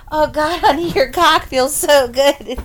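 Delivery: mock bedroom talk. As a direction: play at dirty talk, half laughing. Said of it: "going into the bedroom and saying".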